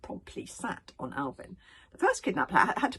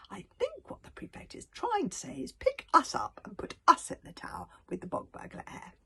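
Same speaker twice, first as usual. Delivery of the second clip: put-on helpful boy; 7 semitones higher, 3 dB louder than usual. A narrator's reading. Hiccup helpfully translates.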